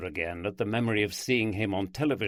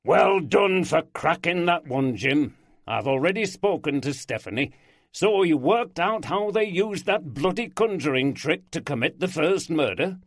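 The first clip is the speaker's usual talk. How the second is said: loud, high jovial boss; hearty boss voice; 7 semitones higher, 5 dB louder than usual. Acted. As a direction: boom out the praise. Walker greets Oldroyd.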